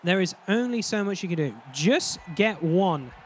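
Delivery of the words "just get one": slow, drawn-out. Retold or imitated. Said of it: "That's the coach's, uh, advice to us".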